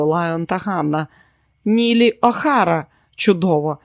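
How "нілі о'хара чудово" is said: delighted. Acted. Neely delighted with name.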